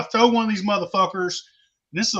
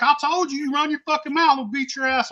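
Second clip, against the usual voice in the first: retold threat; 8 semitones higher than usual. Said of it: "And I was like".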